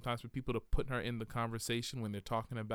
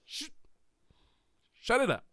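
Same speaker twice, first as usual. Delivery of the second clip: exasperated hush; 5 semitones higher than usual. Pretend. Telling the lady to hush.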